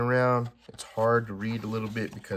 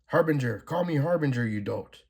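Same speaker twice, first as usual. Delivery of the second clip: higher, commanding mock shout of the possessed Harbinger; mock yell, insane with power; 6 semitones higher, 4 dB louder than usual. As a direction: bark her new name like a power-mad villain. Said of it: "she yells, insane with power".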